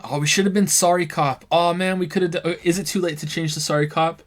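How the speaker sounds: put-on light Canadian accent, eager. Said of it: "Canadian voice the whole time".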